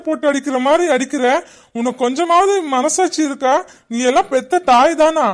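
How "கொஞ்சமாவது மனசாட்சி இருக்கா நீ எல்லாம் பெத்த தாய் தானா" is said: higher, raised voice rebuke; angry scolding. Acted. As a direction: scold her for hitting the kids. Father scolds wife for beating.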